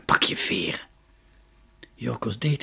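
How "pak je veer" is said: hushed whisper of the name. A narrator's reading. Dunja whispers to her brother as the figure nears, whisper. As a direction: whisper to him so the queen won't hear. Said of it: "fluisterde Dunja".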